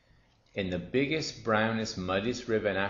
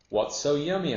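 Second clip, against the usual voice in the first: high, loud storybook question; lightly voiced, inquisitive hippo; puzzled question; 8 semitones higher, 7 dB louder than usual. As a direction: ask with exaggerated curiosity. Hippo asks, curious.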